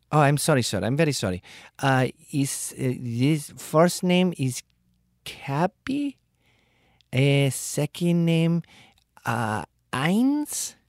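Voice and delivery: high, flustered apologies; apologetic caller. Retold or imitated. Bill collector apologizing, high and flustered. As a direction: apologize in a rush. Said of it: "they get apologetic".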